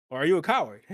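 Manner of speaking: loud taunt, hit coward hard; taunting shout. Acted. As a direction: jeer at him, loud and mocking. GM taunting a player character.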